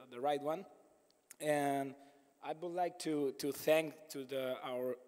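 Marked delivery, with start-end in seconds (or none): 2.4-5.0 hoarse, worn-out voice after days of pitching; lost voice. Real, not acted. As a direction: speak through a voice that's nearly gone. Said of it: "I have no voice".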